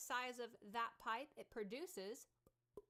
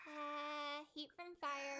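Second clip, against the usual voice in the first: slightly higher, brighter demo line; bright glassy resonance demo; 4 semitones higher, 4 dB louder, much slower than usual. Shown as a demonstration. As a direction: brighten the tone on heat from fire. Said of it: "So we could try like this".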